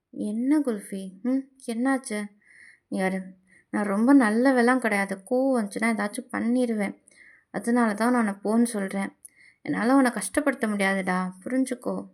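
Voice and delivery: a lightly voiced gentle but firm lover.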